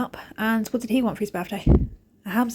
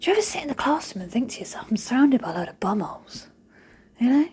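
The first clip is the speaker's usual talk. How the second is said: mock question; 3 semitones higher than usual. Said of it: "And I said to him".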